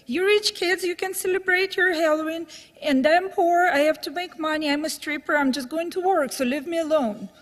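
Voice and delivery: put-on a hurt woman telling off rich kids, voice up; retold outrage, moderately heightened; offended. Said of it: "She got really offended".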